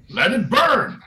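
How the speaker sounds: high, swooping cry; acted exclamation. Acted townsperson's remark on the fire.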